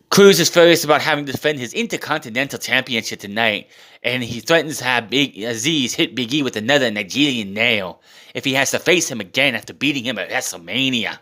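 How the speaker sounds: badly faked Nigerian accent; clumsy mock Nigerian accent; terrible Nigerian accent. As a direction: recap it in a hammed-up Nigerian accent. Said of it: "that was a terrible Nigerian accent".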